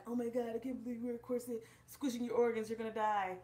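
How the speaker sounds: mock the panicked naysayers; mock horrified critic. Vlogger mimicking critics who think corsets kill, mock alarm. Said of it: "for those people who are like".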